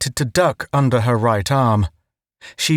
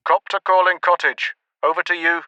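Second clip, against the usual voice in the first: crackly higher radio call; a voice through the radio; 5 semitones higher, faster than usual. A narrator's reading. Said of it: "the radio".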